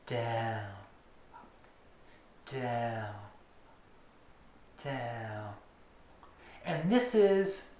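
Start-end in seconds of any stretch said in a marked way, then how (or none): 0.1-5.5 slow fading counted downs; emphasized downs. Shown as a demonstration. Teacher showing where the needle's emphasis falls, fading. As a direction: lean into each down, softer each time. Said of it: "the needle is really moving".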